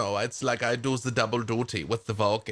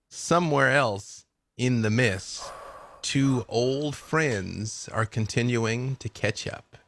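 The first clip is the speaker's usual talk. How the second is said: slow storyteller narration; story narration; slower than usual. A narrator's reading. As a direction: set the scene slowly, like a radio drama.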